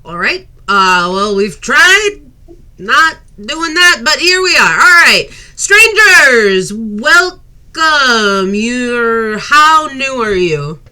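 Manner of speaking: exasperated matriarch welcoming strangers; weary mother. Acted. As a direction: sigh at the kid, then greet the strangers. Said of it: "She's like".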